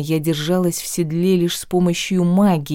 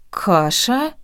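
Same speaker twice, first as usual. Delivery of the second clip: indignant; 5 semitones higher than usual. Acted. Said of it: "возмутилась".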